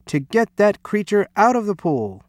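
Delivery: high-pitched, insistent order; upset cry. A narrator's reading. Coach ordering the creature out, high upset cry. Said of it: "he cried".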